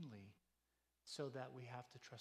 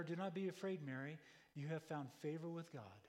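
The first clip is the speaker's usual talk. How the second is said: raised, proclaiming angel voice; angel's reassurance; 3 dB louder than usual. Acted. Angel reassuring a frightened Mary, raised and proclaiming. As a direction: announce it like a heavenly messenger.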